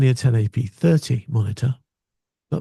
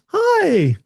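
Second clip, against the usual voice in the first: high, chirpy gadget voice; monitor saying hi. Retold or imitated. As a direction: voice the monitor as a cheery little device. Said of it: "It says".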